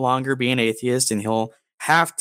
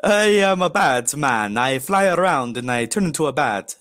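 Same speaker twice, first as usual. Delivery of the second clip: hammed-up vampire voice; Count Dracula. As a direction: declaim it like a campy bat-man vampire. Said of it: "Count Dracula".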